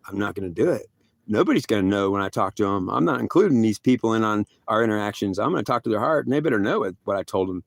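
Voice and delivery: low-pitched, firm voice of God; stern refusal. Retold or imitated. Acted stern answer from God.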